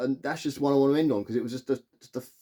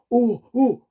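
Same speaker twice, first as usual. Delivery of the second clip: high, loud whooping oohs; loud audience reaction; 11 semitones higher, 8 dB louder than usual. Retold or imitated. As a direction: imitate a rowdy cinema crowd. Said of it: "They were quite loud".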